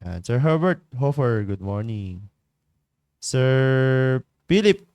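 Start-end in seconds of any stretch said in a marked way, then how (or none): 3.2-4.8 long, loud drawn-out call of the name. Real, not acted. Calling Sir Philip to join the Google Meet, drawn out and loud. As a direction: stretch the name out and call it across the room.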